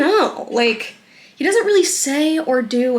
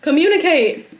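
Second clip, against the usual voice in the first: raised, exasperated mock quote; mocking boyfriend. Vlogger mocking the passive boyfriend, exasperated and raised. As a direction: push the words up in frustrated mockery. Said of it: "And he's like".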